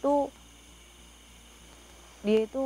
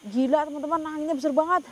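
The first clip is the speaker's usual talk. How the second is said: higher, louder call over gusts; shouting over wind; 5 semitones higher, 4 dB louder, faster than usual. Real, not acted. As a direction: raise your voice above the wind. Wind roaring around them.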